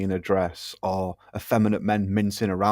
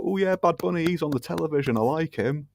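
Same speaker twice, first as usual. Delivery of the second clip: higher, dopey casual-viewer voice; 5 semitones higher, 3 dB quieter than usual. Retold or imitated. Mocking casual fans who still watch in a higher dopey voice. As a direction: play it like a happy, dim fan.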